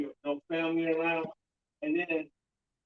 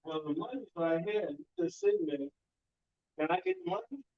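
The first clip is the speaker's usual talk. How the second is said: mock bank robber; 8 semitones higher, 3 dB quieter than usual. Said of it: "I was like".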